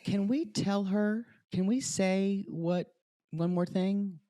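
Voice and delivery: hushed retold request; imitated confiding aside. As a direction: ask it carefully, as the hesitant friends. Retelling friends' cautious aside, whisper heard.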